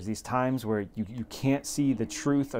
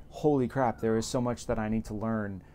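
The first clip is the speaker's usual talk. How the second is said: a touch of wide-eyed awe; mildly voiced sudden realization; mock awe. Reader realizing the hated book holds so much, light awe. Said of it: "to, like".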